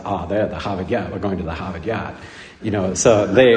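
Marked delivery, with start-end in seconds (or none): 0.0-2.2 put-on Boston accent. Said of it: "in Boston, they don't say the".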